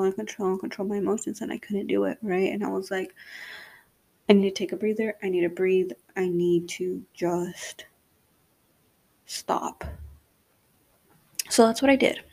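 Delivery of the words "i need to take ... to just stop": whispered self-calming. Retold or imitated. Retold self-talk, calming down.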